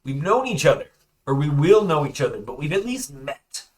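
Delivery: eager prisoner bluffing; eager Werner. Acted. Werner bluffing to the prisoner who questions him. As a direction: talk fast to be believed.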